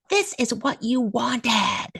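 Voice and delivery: slow, high, bitter retelling of her yell; angry accusation. Retold or imitated. Teacher blaming the advocate for the eligibility, slow and furious. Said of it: "she's yelling".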